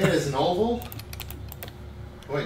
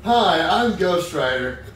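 louder Ghost Rider voice, laughing; 5 dB louder than usual. Acted. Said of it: "You sound like Ghost Rider".

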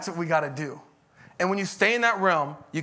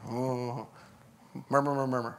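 low, soft imitated grumbling; mock congregational murmur; 7 semitones lower, 7 dB quieter than usual.

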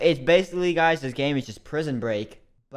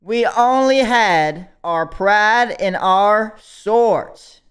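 put-on Southern accent; 2 semitones higher than usual. A YouTuber spinning his prisoner backstory in a put-on Southern accent. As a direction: lay on a put-on Southern accent, folksy and grand. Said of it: "I was doing a Southern accent".

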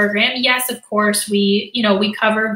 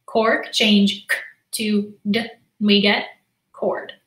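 teacher demo, slow. Shown as a demonstration. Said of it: "then I do it again".

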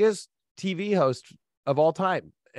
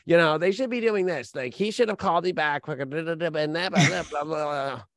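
whiny, dismissive imitation of entitled people; lightly mocking someone's griping; mock complaining; 2 semitones higher than usual. Imitating people griping about others, mocking. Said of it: "people just are like".

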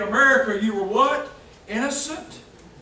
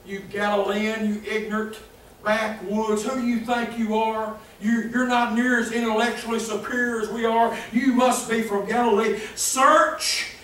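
arrogant scorn; 3 dB louder than usual. Retold or imitated. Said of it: "Again, in their arrogance".

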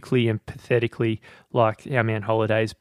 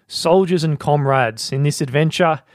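slow, raised, grand battlefield address; mock general's speech; 3 semitones higher than usual. Podcast host reading Demosthenes to his soldiers, mock rousing oration. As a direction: play an ancient general rousing his men, half-serious. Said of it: "I don't know what voice accent we're going with".

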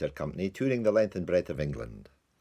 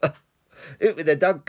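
loud, higher shout of disgust; indignant diner yelling; shouted order; 9 semitones higher, 7 dB louder than usual. Acted. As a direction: bellow it across the dining chamber.

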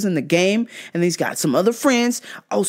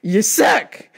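mocking taunt; 7 semitones higher, much slower than usual. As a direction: gloat over the loser. Taunting the losing president.

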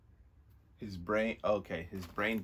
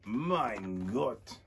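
put-on German-accented exclamation, drawn out; 3 dB louder, much slower than usual. Nightcrawler crying out as everyone is sick, German accent. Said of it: "is it a German".

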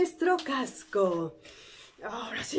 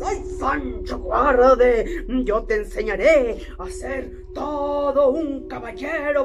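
louder, slowed scolding of a coward; mock scolding; 4 dB louder than usual. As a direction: scold Sancho for running off. Quijote scolds fleeing Sancho.

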